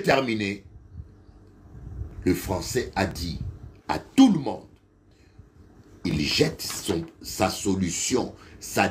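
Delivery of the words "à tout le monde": announcing to class. Retold or imitated. Professor addressing the class.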